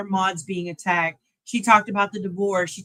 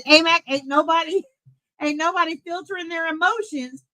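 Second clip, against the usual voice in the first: quoting Grace; 6 semitones higher than usual. Retold or imitated. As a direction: belt out Grace's words, a notch up. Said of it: "Grace said".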